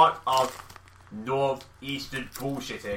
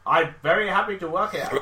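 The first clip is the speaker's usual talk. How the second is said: put-on higher voice in a muddled foreign accent; janitor's dubious Russian-sounding accent; 7 semitones higher, 4 dB louder than usual. Janitor happy with his job, dubious Russian accent. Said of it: "Is it a Russian janitor?".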